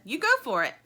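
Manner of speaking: mild encouraging shout; calling. A narrator's reading. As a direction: call it out in encouragement. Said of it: "calls Lumpy".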